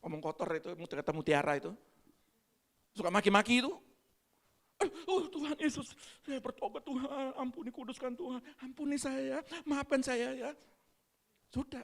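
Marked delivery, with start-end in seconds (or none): 4.8-10.5 soft pleading prayer voice; mock repentant prayer. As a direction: plead softly like a sinner repenting. Acted repentant prayer quote. (doa tobat yang lirih dan pura-pura)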